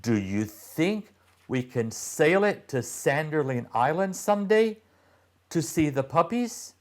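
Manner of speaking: put-on high, eager girl's question; hopeful girl. A narrator's reading. Constance asking about sailing to the island, high and hopeful. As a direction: ask it hopefully like a little girl. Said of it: "asked Constance".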